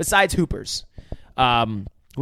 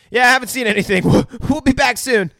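mock Quint lying; 9 semitones higher, 5 dB louder, faster than usual. Quint lies on the phone.

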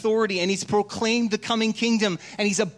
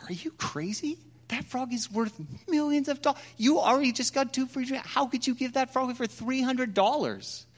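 incredulous bartender; 6 semitones higher, 3 dB quieter than usual. Acted. Bartender scolding in joke.

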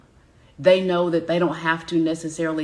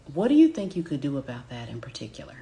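slightly quicker open question; calm coaching cadence; 3 semitones lower, much faster than usual. Shown as a demonstration. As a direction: ask it gently, let it land. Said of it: "hear my cadence".

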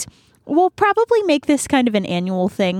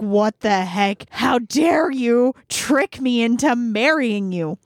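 slow, emphatic indignation; mock outrage; slower than usual. Tricked groom confronting his old bride, lightly acted anger. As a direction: spell out the retold outrage word by word. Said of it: "super angry".

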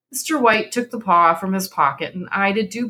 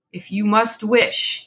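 gruff; 3 semitones higher, slower than usual. Acted. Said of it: "he said gruffly".

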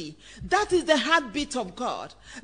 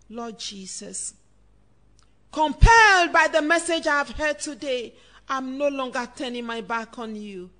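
leading a prayer; 3 semitones lower than usual. Real, not acted. Preacher leading listeners in the sinner's prayer, solemn praying. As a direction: lead them phrase by phrase in prayer.

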